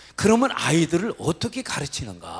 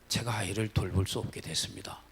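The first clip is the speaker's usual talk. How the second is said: hushed apology; 5 semitones lower, 6 dB quieter than usual. Retold or imitated. Teacher telling the parent by phone, a whispered apology. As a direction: lower whispered confession.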